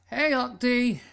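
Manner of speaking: bright loud hey at the door; cheery loud greeting. Acted. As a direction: call out to your friend happily. Friend greets loudly at door.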